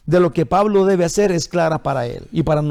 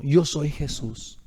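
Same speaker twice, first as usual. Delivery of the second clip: slow, lower and softer, calm and grave; solemn voice of Jesus; 4 semitones lower, 6 dB quieter, slower than usual. Acted. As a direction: speak as Jesus, quiet and weighty. Preacher voices Jesus speaking.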